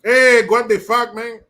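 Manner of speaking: loud, slow, high cholo shout; homie yell. Pretend. Homie jeering at Liz Cheney, loud and slow. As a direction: bellow it like a rowdy homie.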